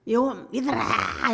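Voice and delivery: high, very slow comic call; mocking Jonah's careless call; mock rushed preaching. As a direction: drag out a lazy half-hearted sermon. Jonah rushing the message.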